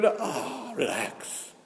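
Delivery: "relax." dropped low and soft, almost to himself. Acted. Mocking ego, telling it calm down.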